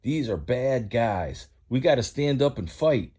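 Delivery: Mater's rallying voice. Acted. Mater rallies the others.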